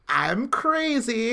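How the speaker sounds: slow, drawn-out mock madman; a lightly voiced unhinged villain, slowed right down; mock crazy villain. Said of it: "when he showed up the first time where he's like".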